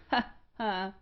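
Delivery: a quiet, mocking ha ha; mocking laugh. A narrator's reading. Rougemont mocking Auriol, soft laugh. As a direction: laugh him off softly. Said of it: "laughed Rougemont".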